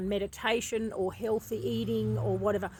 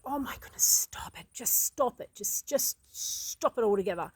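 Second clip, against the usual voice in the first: exasperated half-whispered scolding; retold cranky telling-off, mostly whispered. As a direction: hiss it at the naughty puppy under your breath. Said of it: "I was getting so cranky with him".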